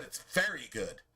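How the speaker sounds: very lifted and held, good falling after; stress on very. Shown as a demonstration. Preacher repeating God's verdict, stressing very. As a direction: land hard on very.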